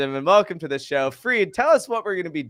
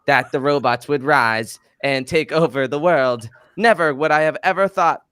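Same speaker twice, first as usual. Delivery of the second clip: AI wellness robot voice; earnest robotic brand spokesman; GT Dave robot voice. Acted. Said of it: "your G T Dave impression".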